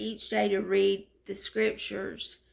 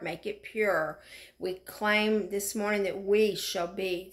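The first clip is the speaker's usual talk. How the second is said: preaching declaration. Acted. Declaring scripture aloud in prayer.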